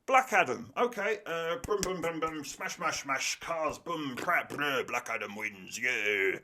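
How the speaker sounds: a hint of a clueless boss rattling off explosions; mock DC executive. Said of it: "and they go".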